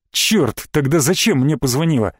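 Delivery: ordinary delivery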